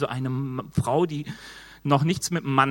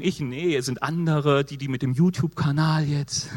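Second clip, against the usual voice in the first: lightly voiced mock whining; whiny excuses; 2 semitones lower than usual. Preacher mimics a reluctant believer lightly whining excuses. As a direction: reel off excuses in a mild moan.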